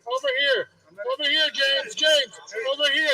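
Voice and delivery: calling out. Real, not acted. Calling out to officer James.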